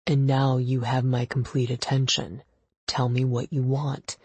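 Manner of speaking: a hint of a terse boss; brusque and matter-of-fact; lightly voiced curt husband. Gideon laying down rules to Ava, curt.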